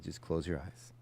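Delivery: guiding a terrified RV driver, calm and soft; calm soothing. Retold or imitated. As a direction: talk her down softly. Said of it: "So I very calmly".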